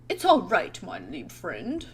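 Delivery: clumsy attempt at a German accent; botched German accent. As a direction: badly fake a German friend. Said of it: "I can't speak German at all".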